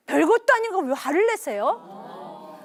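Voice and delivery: put-on mildly indignant teenage back-talk; defensive retort. Son talks back to father in quarrel.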